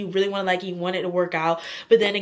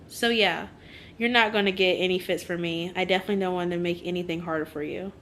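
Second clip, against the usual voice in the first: book dialogue read aloud; 2 semitones lower, 3 dB quieter than usual. Acted. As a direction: read the confession gently and evenly. Reads book quote aloud.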